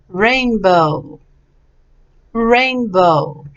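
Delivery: "Rainbow" drawn out, falling at the end; pronunciation model. Shown as a demonstration. Teacher prompts student to repeat, careful pronunciation. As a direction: stretch both halves of "Rainbow" clearly. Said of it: "make sure we have the pronunciation right".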